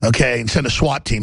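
low, menacing killer's voice, taunting his victim; Ted Bundy threatening a girl in his car, low and menacing. Retold or imitated. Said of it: "And he's".

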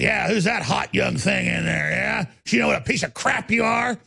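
jeering hecklers, imitated and slowed; mock jeering shout. Hecklers taunting the host, retold as a mock jeering shout. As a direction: taunt him the way the hecklers did. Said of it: "And they're going".

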